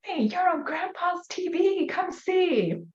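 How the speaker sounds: put-on high, bright child voice; voicing a little girl calling her mom; daughter's voice. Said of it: "she was saying".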